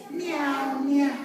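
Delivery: high, drawn-out meows; cat meow. Acted. Teacher leading children in cat sounds, high meowing. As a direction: mew like a cat. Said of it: "A cat says".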